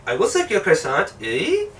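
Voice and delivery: hammed-up French accent with rising end; mock French accent. French girl answering her suitor, mock French accent. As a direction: imitate a French woman agreeing. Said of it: "And then she's like".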